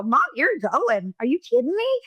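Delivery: mock-incredulous daughter, playing for laughs; joking retort. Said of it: "then we go to humor".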